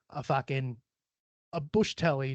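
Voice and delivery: casual mock Aussie accent; Australian accent. Shown as a demonstration. Showing off Australian slang to listeners, light Australian accent. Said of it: "I do a lot of fucking, uh, accents".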